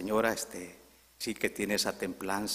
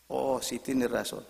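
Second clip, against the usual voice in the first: meek concession; 3 semitones higher than usual. Acted. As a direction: give in gently to an angry neighbour. Woman meekly concedes to angry neighbour. (respuesta mansa y conciliadora)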